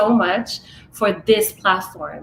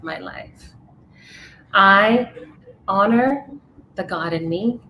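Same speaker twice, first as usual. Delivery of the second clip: affirmation reading. Acted. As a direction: let each vow land, then pause. Guest reads her written affirmation.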